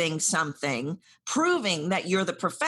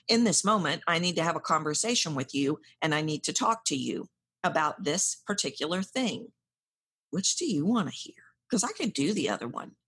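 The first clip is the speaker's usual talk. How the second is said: stiff formal; 2 semitones lower than usual. Shown as a demonstration. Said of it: "Rather than".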